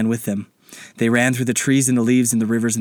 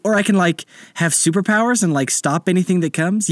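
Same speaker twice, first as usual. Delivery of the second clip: put-on eager child voice; 8 semitones higher than usual. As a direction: rattle off wishes like an excited boy. Child Anderson rapid questions.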